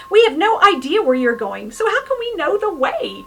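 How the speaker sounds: loud, high alarmed cry of a disciple; panicked protest. Retold or imitated. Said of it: "He was panicking".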